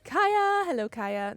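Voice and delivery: high, loud cry of a name; delighted shout to an arriving friend; excited greeting. Real, not acted.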